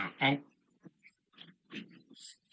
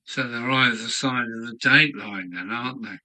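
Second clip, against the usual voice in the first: hiccups; 4 dB louder than usual. Real, not acted. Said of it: "The hiccups, yeah, I'm sorry".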